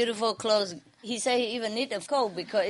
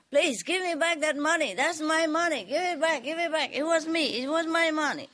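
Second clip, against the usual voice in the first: pleading, near tears; 9 semitones higher than usual. A narrator's reading. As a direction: beg for the money back in a high, tearful voice. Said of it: "he was crying".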